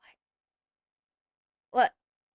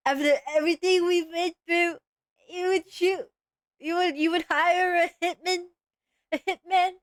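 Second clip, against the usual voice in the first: mock wounded betrayal; 4 semitones higher than usual.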